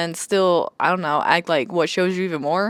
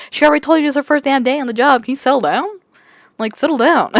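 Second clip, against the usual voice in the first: exasperated rant; 6 semitones higher, 5 dB louder, faster than usual. Real, not acted. Ranting back at the love interest.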